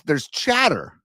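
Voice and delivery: "chatter" drawn out slowly and leaned on; stress on chatter. Real, not acted. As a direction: lean on "chatter", stretch it out. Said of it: "I stress the word chatter".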